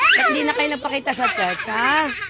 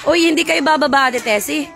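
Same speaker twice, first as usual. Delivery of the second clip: calling out; 4 semitones higher, 6 dB louder than usual. Real, not acted. Calling to Ate Tessie leaving.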